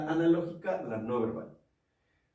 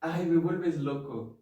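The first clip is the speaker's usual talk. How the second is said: annoyed; 3 semitones higher than usual. Shown as a demonstration. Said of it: "A decir".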